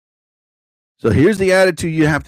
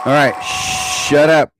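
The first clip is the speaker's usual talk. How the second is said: slow shout; much slower than usual. Real, not acted. Yelling at someone off-mic.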